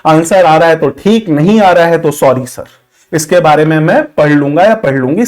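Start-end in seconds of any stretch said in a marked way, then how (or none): 2.1-5.3 humble polite answer. Shown as a demonstration. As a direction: admit it gently, like a respectful candidate. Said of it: "सबसे सटीक answer यही होता है". (विनम्र, धीमी और नीची आवाज़ में माफ़ी)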